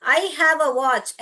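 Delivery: each word slow and separate; teacher reading an example aloud, slowly; slow example sentence. Shown as a demonstration. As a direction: dictate it slowly to the class. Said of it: "ऐसे बोलूं तो".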